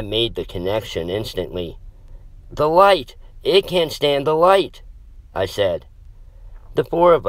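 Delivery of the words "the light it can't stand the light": excited shout. A narrator's reading. Sudden realization about the monster.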